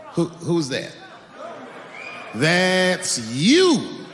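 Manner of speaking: usual speaking voice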